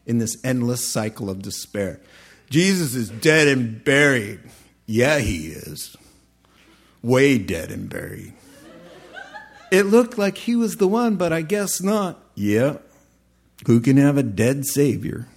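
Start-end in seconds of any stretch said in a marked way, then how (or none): 2.5-8.3 put-on southern accent. Disciples feeding each other's despair, southern accent. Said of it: "who has the southern accent". 9.7-15.3 lightly hammed-up southern disciple; southern accent. Dejected disciples talking on the road, mock southern accent. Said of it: "who has the southern accent".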